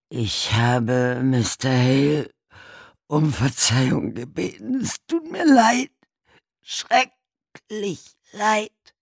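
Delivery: very high, loud, wailing sorrow; begging forgiveness through tears; desperate apology. A narrator's reading. Buried man apologizes up the pipe, wailing.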